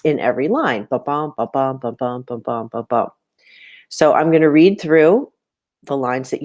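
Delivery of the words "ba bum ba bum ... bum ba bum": even, bouncing "ba-BUM" count, five times over; iambic beat. Shown as a demonstration. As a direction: chant "ba-bum" with weight on each "bum". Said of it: "there needs to be five feet".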